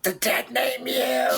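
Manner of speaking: slow, high, eerie intoning; ominous. Pretend. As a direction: deliver it like a doom prophecy. Echoing the cryptic curse.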